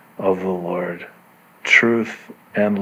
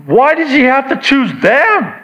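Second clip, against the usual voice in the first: high-pitched mock complaint; whiny objection; 14 semitones higher, 3 dB louder than usual. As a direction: protest like a put-out churchgoer. Acting out a dismissive complaint.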